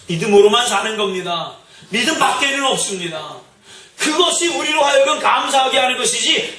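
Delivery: forceful pulpit declaration, rising in pitch; impassioned preaching. Real, not acted. Preacher urging the congregation to see by faith, impassioned. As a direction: proclaim it to the room, building to a high, ringing exhortation.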